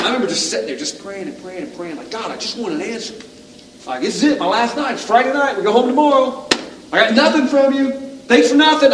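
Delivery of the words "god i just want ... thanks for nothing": mock yell at God. Yelling at the waves, angry with God. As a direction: build from pleading into bitter shouting. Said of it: "I'm yelling at the waves".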